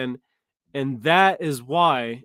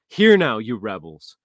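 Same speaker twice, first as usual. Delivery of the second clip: slow, loud scolding of rebels; stern rebuke; 4 semitones lower, 6 dB louder, slower than usual. Acted. Moses scolding the rebellious assembly, loud and slow. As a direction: bark it out slowly at the crowd.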